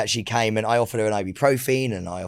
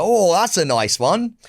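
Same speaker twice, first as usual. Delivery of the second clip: slow, slightly higher coo; drawn-out delighted reaction; pleased dog greeter; 4 semitones higher, slower than usual. Acted. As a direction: pretend a dog is licking you. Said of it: "And I'm like".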